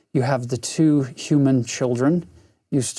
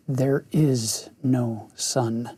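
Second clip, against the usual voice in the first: slow, grave pronouncement; 3 semitones lower, slower than usual. Acted. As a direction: say it slowly and gravely. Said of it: "Slowly and gravely the witch repeated".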